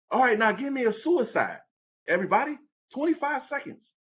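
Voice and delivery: high, barked-out coach orders; coach calling drills. Retold or imitated. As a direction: call the drill across the gym. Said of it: "the coach is like".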